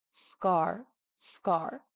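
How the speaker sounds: "scar" with the K almost like a G; crisp "scar", K without breath; unaspirated K. Shown as a demonstration. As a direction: say "scar" with a soft K and no puff of air. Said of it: "soft, completely non-aspirated K sound".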